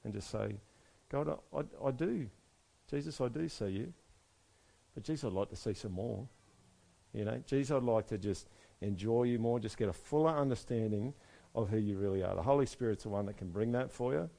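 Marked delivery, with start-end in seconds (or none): 1.1-12.3 soft, hushed sincere asking; gentle prayer. Shown as a demonstration. Preacher modelling a quiet prayer for the congregation. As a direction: pray it quietly from the heart.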